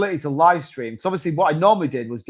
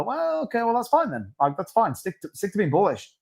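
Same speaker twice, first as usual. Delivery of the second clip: high mock shrug; 5 semitones higher than usual. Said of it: "then you kinda go".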